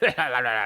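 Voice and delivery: low mocking villain laugh, imitated; Triple H laugh. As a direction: put on a wrestler's gloating chuckle. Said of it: "like the Triple H".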